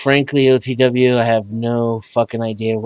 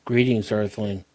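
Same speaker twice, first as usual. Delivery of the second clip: flat robotic synthesized voice; 5 dB quieter than usual. Real, not acted. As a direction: speak like a retro text-to-speech box. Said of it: "Do I love that, um, that particular tone?".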